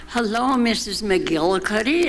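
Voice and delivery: answering Helen's silly greeting, lightly hammed-up hello. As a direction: answer with a light put-on grand-lady voice. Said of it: "greeted each other with these silly names".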